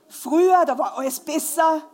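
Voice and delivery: put-on a touch of a grumbling old man, first word loud and high; hammed-up "Früher" at the start, then settling back; mock old-timer. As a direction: lightly parody the nostalgic elder. Mocking the older generation.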